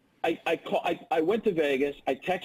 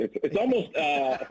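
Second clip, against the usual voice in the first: Jay Gruden impression. Shown as a demonstration. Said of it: "that's a Jay Gruden right there".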